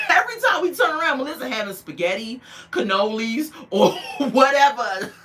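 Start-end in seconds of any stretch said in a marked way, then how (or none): 0.1-1.2 laughing it out, high and fast. Real, not acted. Vlogger mocking Melissa's constant Italian food, laughing. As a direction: giggle through the words, louder.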